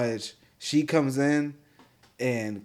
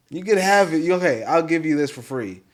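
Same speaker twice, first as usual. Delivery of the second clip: eager bartender; 4 semitones higher, 6 dB louder than usual. Retold or imitated. Bartender voiced in story.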